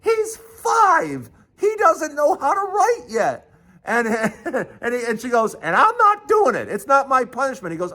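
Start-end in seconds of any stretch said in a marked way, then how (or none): 0.0-3.4 very high-pitched, indignant protest; imitating a mom telling off a coach; outraged mother. 5.5-7.7 high, emphatic refusal; imitated mom putting her foot down; indignant mother. Mother outraged at the coach.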